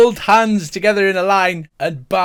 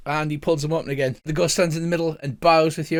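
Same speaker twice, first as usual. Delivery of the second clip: usual speaking voice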